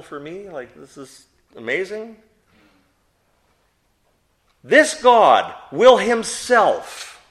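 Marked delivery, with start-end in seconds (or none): 4.6-7.2 slow, loud, weighty stress on "This God will himself"; emphatic reading. Shown as a demonstration. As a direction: lean hard on every word of "This God will himself", slowly. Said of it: "very emphatic in this verse".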